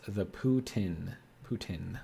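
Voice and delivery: "poutine" said slowly, short final vowel; French pronunciation. Shown as a demonstration. Streamer trying a viewer's French version, "poutine" said slowly as poo-tin. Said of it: "If you're one of those French guys".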